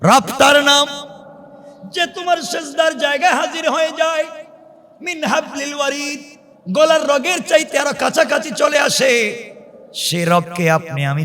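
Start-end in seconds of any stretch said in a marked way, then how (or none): 0.0-9.4 high, ringing sermon delivery; preacher in a high, urgent pitch; impassioned preaching. Acted. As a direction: raise the voice and preach each phrase out. Preaches at full force.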